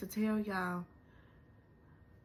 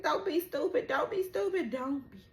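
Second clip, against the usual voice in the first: much higher and louder, stretching stupid; mock scolding; 7 semitones higher, 6 dB louder, faster than usual. Fan yelling at the character, high and loud. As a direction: shout it at the screen.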